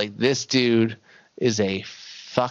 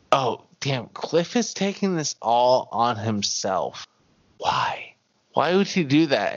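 building disbelief; 3 semitones higher, 3 dB louder than usual. Retold or imitated. A viewer baffled at Cliff, building to a loud question. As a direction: push louder into the last why.

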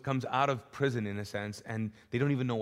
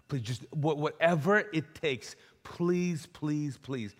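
rising, louder, higher pleas that fall away at the end; desperate pleading; 5 semitones higher, 4 dB louder, slower than usual. Acted. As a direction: beg him desperately not to be sent home. Man begs Jesus to stay.

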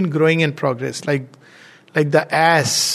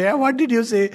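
higher-pitched, mock call of a hard-of-hearing man, no real volume; mild mock loud; 8 semitones higher than usual. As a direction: lightly imitate someone hard of hearing asking again.

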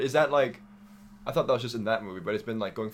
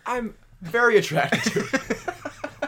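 mock seductive; 11 semitones higher, 6 dB louder, much slower than usual. Joking about the villain's looks.

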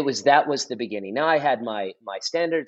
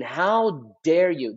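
slow, drawn-out mock outrage, raised pitch; retold indignation; 4 semitones higher, much slower than usual. Pastor recalling his anger at a friend's comment, indignant. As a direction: stretch it out, recalling how offended you felt. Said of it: "I remember getting angry at him".

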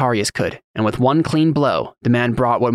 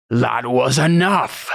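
bellowed; much slower than usual. A narrator's reading. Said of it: "Cantarius bellowed".

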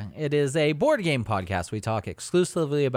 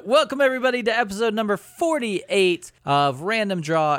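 laughing; 8 semitones higher, 4 dB louder than usual. Real, not acted. Host intro, laughing.

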